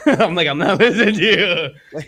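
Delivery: can't keep a straight face telling the friend off; laughing. Real, not acted. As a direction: quote broken by real laughs. Laughing mid quote.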